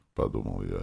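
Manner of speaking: usual speaking voice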